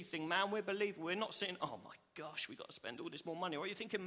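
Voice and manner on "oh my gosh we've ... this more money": lower, softer put-upon moan; quick, dejected complaint; mock grumbling. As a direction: imitate someone moaning under their breath. Imagined grumbler about more spending.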